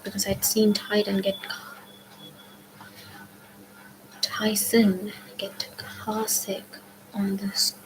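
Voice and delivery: ordinary delivery, nothing marked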